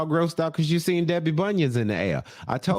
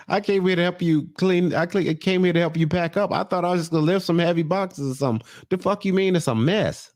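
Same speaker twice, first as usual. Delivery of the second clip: higher-pitched, run-on incredulous complaint; Tony's mock indignation; 4 semitones higher than usual. Tony complaining he came to help pack, mock indignant. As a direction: play the put-upon helper, pitched up. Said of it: "And Tony's like".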